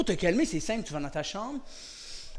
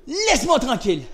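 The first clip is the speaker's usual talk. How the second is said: firm, assertive demand; 4 semitones higher, 4 dB louder than usual. Shown as a demonstration. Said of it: "en regardant dans les yeux".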